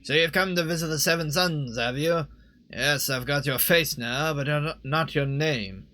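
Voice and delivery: lightly voiced creepy stranger; sly merchant. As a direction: draw out the menace in character.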